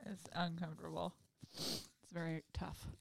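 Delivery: soft, quiet aside; subdued aside. Real, not acted. Someone who needed a tissue mid-story, subdued and quiet. Pauses for a tissue after laughing.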